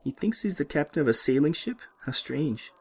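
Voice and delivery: put-on the nurse sneering at the patient in a French accent; disdainful French nurse; mocking French nurse.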